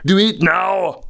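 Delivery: high, forceful shout; shouted command. Pretend. Vlogger orders viewers to stop excusing, shouted command.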